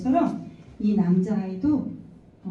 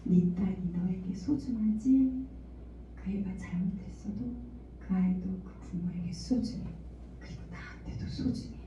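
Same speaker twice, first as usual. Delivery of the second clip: gentle voice of God; 6 dB quieter than usual. Retold or imitated. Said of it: "하나님의 음성이 들려요".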